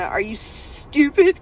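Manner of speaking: slow, drawn-out scornful are you stupid; a touch of scornful mockery. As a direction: drag it out like she thinks he's dumb. Mocking attitude quote.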